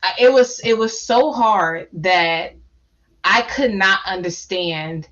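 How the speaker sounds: slow, deliberate words, fighting real tears; holding back tears. Real, not acted. Panelist admitting how hard it was, trying not to cry. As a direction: draw it out slowly so you don't cry. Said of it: "I'm talking slow 'cause I'm trying not to cry".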